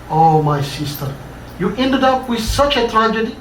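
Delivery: high, lightly voiced grieving cry; a touch of a keening sister; wailing lament. Charlotte mourning the fallen woman, understated wail. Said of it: "Charlotte screamed madly".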